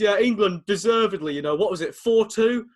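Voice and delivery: imitating a pundit unsure of the score; Jack Charlton. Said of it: "Three times he checks himself".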